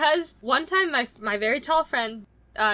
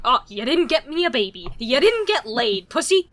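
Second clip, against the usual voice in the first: louder, taunting voice for a body part; mocking uterus; 4 dB louder than usual. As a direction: jeer like a disappointed uterus. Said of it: "your uterus is just like".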